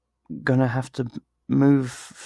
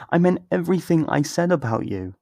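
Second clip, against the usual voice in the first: ordinary delivery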